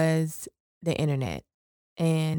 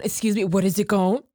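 shady mock question; 3 dB louder than usual. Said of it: "All that shade".

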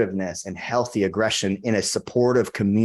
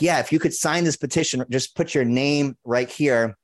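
eager sales pitch; 4 semitones higher than usual. Retold or imitated. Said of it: "I'm like".

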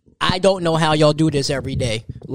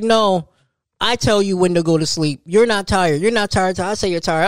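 put-on a little girl's bossy voice, pitched up; 4 semitones higher than usual. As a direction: lay down the law like a four-year-old. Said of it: "She was like".

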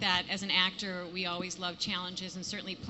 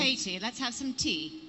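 put-on British accent, inviting. Shown as a demonstration. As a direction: play a polite British hostess, pitched up. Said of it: "willing to do a British accent".

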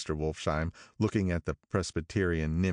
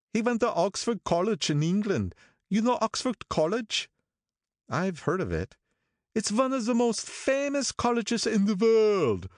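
put-on higher old man's voice, full of praise; approving Wolfsheim voice, pitched high; admiring old gangster. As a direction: boast about him like a proud patron. Wolfsheim boasts of Oxford.

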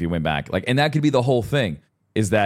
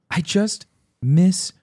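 sad; 10 semitones higher, slower than usual. Retold or imitated. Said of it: "And he mumbles".

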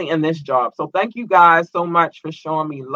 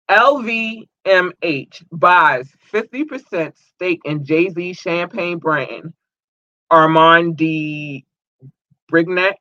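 news headline read; much slower than usual. Real, not acted.

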